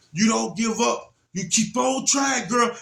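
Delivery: high, urging call; retold encouragement. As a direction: cheer a child on through danger. Encouraging struggling daughter.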